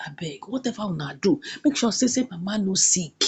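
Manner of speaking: low, soft acted plea; retold begging. Angel begging a brother for mama's health, soft plea. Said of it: "begin dey beg him brother say".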